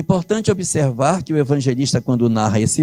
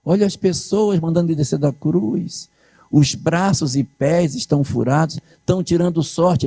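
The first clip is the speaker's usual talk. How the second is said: amazed onlookers; 6 semitones higher than usual. Retold or imitated. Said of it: "os que conheciam o texto diziam".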